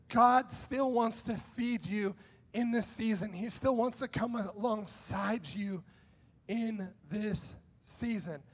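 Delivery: slow, soft reassuring voice; gentle reassurance. Acted. Preacher comforts the online church, slow and soft. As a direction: ease them in gently. Tender close of the sermon.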